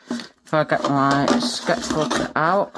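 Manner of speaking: talking around a pencil in the mouth; words muffled by a pencil held in teeth. Real, not acted. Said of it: "that's why I sound funny".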